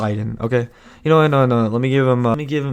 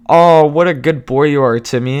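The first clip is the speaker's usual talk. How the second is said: sweet teacher praise; 4 semitones higher, 7 dB louder than usual. Retold or imitated.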